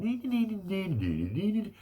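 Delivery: put-on high taunting kid chant; mock a nine-year-old's taunt; childish nee nee. Grown-up in an argument chanting like a nine-year-old. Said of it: "their voice goes like a nine-year-old".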